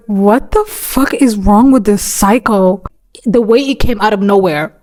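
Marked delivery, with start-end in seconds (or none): 0.1-2.8 slow disbelief. Retold or imitated. Coworkers' shared disbelief, retold.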